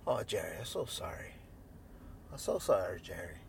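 low, subdued retold apology; calm apology. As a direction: act out a contrite man, calmed down and low. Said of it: "calm again. He go".

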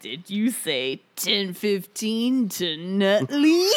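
Sal impression. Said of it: "Whenever I hear Sal from Futurama".

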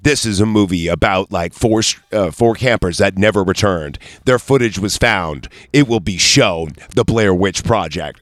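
a lightly done dramatic trailer read; movie trailer voice. Retold or imitated. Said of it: "when they were saying on, like, line".

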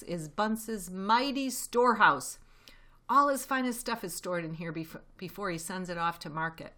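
a proud fox showing off his find; Mr Fox's voice. Acted. Mr Fox proudly presenting the storehouse, lightly voiced.

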